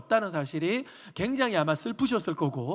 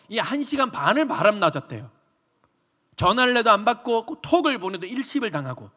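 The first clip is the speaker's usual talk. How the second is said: normal talking voice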